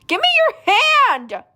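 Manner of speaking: desperate rescue call; urgent shout. Acted. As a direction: yell to grab on. Rescue reach.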